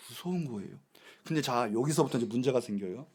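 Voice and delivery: 무서운 said soft and low, falling away; hushed repeat. Acted. Pastor repeating the warning to the church, soft and low. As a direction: drop to a hush on 무서운.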